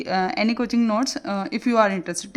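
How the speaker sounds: slow, drawn-out reading of her own written note; reading slowly. Shown as a demonstration. Teacher reading her slide note slowly to students. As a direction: read each word off the screen slowly. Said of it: "देखो मैंने यहाँ लिखा हुआ भी कि".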